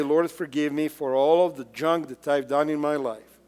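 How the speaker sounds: hushed contrite prayer; humble prayer. Pretend. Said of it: "and we say".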